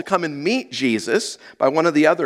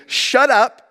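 higher, blunt "Shut up"; rude command; 8 semitones higher than usual. Acted. Preacher voicing Jesus silencing the demon, a mild blunt rebuke. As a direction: bark it as a rude order. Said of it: "would not have been considered polite".

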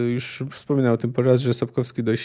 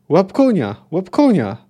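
raised, urgent battle command; acted shout, higher in pitch; urgent call; 4 semitones higher, 4 dB louder than usual. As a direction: call it out to a comrade in the fray.

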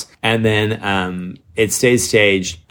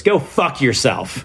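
slow, higher-pitched imitation of an angry client; retold angry send-off; 4 semitones higher, slower than usual. Angry client ending a call about a missing bench, retold slowly. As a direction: draw out the mock parting insult.

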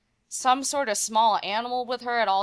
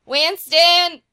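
put-on loud, higher call for a pet in a Southern accent; louder, higher mock summons of a pet bird; 9 semitones higher, 10 dB louder than usual. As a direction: shout the bird's name to come out. Calling the pet out.

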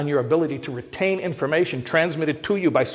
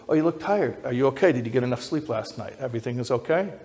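caring, not accusatory; faster than usual. Retold or imitated. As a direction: ask kindly, no trace of blame. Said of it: "not saying it in an accusatory way".

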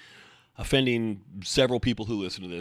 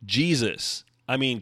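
usual speaking voice

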